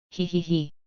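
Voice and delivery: smug dreamy giggle; arrogant laugh. Acted. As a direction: giggle smugly in your sleep. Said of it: "A strange and arrogant laugh".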